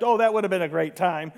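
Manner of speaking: dry sarcasm on the complaint; mock the idea gently; sarcastic. Real, not acted.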